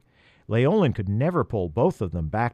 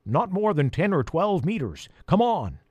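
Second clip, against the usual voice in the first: duck voice; 7 semitones higher than usual. Acted. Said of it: "the duck quacked".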